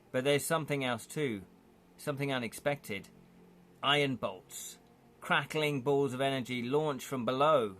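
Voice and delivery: measured scene-setting narration; game master narrating the opening; story narration. A narrator's reading. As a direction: paint the scene for the players.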